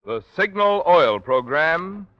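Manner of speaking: slow, drawn-out sponsor call; announcer slogan. Acted. Radio announcer opening the sponsored mystery show, slow and grand. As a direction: stretch the show's sponsor name out proudly.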